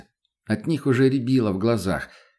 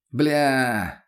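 drawn-out, higher howl of dismay; wailed curse; 4 semitones higher than usual. A narrator's reading. Addict waking up in the snowy wasteland, wailing a curse. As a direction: wail it out in mild frustration. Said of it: "взвыл мутный".

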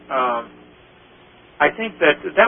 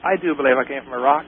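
slowly dawning realization. Retold or imitated. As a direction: act out it sinking in. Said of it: "it was slowly dawning on her".

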